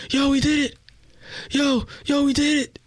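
high-pitched excited mock scream; acted-out ecstatic phone shouting. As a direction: imitate a dude yelling his good news. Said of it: "this dude screaming on the phone".

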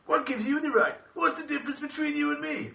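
high, taunting Joker-style delivery; villain quote. Acted. Quoting the Joker to friends, high and taunting. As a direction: sneer it like a manic villain. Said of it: "four quotes from superhero films".

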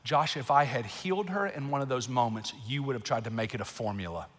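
low, measured voice of God; God's calm reply. Retold or imitated. God answering a questioning father, calm and low.

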